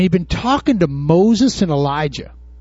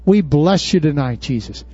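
closing prayer. Acted. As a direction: pray it over the congregation.

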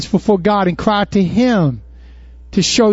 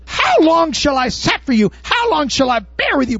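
exasperated Jesus; 8 semitones higher than usual. Retold or imitated. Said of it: "he said".

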